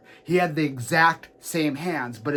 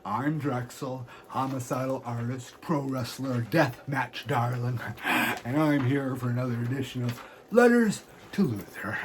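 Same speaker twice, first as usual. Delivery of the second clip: a hint of a sinister showman intro; lightly voiced wrestler host. Wrestler persona hosting segment.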